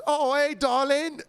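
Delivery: slow, high mock Yorkshire lady; a deliberately terrible Yorkshire accent; bad Yorkshire accent. Bartender imitating a Yorkshire customer in a bad Yorkshire accent. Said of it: "I'm trying to do the worst accent because it was so deep Yorkshire accent".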